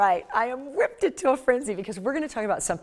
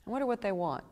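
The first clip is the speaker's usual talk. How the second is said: suspicious; 4 semitones higher than usual. Retold or imitated. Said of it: "you look at 'em like".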